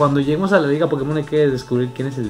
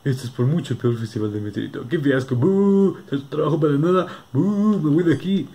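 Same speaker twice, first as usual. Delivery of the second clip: booing crowd; 3 semitones higher than usual. Acted.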